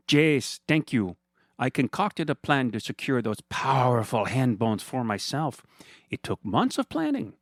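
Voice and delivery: high, sugary mock-friendly villain voice; smug villain Fernando. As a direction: purr at him like a gloating rich villain. Fernando's monologue.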